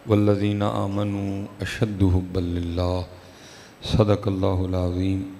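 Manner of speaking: slow, measured sacred recitation; Arabic sermon recitation. Acted. Preacher opening his sermon with Arabic praise, reciting. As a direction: draw out the ends of each phrase.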